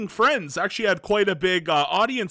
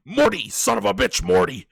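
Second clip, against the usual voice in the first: rough, creaky, loose rasp with swooping pitch. Showing a vague impression after saying they can't do it. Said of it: "here's my vague impression".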